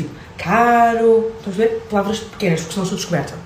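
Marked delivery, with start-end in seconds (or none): 0.4-1.3 "Caro." loud and higher, clipped carioca style; short Brazilian word. Shown as a demonstration. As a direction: say just the one word, Brazilian-like. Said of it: "tem que dizer".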